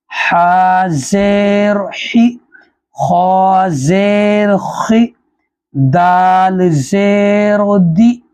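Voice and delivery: slow rhythmic letter-by-letter spelling; Urdu: क़ायदा हिज्जे का अंदाज़; spelling drill. Shown as a demonstration. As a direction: chant each letter like a qaida teacher. Teacher spells letters with zer.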